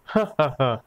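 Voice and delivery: acted burst of laughter; sudden "ha ha ha" laugh. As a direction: crack up despite yourself. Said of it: "कोबी की हंसी छूट गई".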